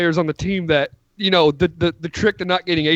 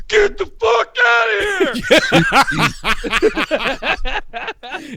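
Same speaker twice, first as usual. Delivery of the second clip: Belichick; 13 semitones higher, 3 dB louder, much slower than usual. Acted. Acted Belichick ejecting trainer.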